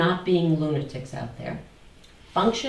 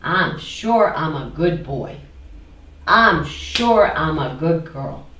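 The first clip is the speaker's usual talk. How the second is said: smug certainty; 2 semitones lower, 5 dB louder than usual. Acted. Acting the sure voice.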